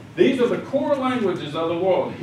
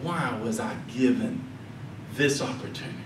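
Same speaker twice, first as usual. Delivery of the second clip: softer and lower, a voice about to break; 7 semitones lower, 9 dB quieter than usual. Retold or imitated. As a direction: let the question crack with emotion, much softer. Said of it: "he would just break".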